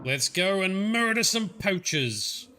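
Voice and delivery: gleeful. Real, not acted. Gamer rallying to hunt poachers.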